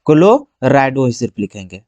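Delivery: low, drawn-out dictation of the term; slow dictation. Real, not acted. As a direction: stretch it out as you write. Dictating the term while writing it.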